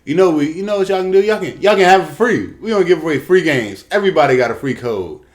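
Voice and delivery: high, loud, smug mock spokesman; mocking company voice. Gamer mocking EA's free-game offer, high smug voice. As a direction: sneer it out like a fake generous company. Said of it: "Madden and E A came out and said".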